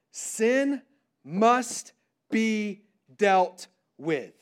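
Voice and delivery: "sin must be dealt with" very slow, word by word; a long pause after "sin", then each word set apart; deliberate emphasis. Real, not acted. Key point stated word by word.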